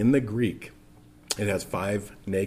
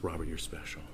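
tender voice of God; 4 semitones lower, 12 dB quieter than usual. Pretend.

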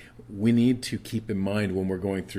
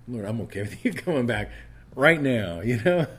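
laughing; 5 semitones higher, 4 dB louder than usual. Real, not acted. Joking prayer, laughs.

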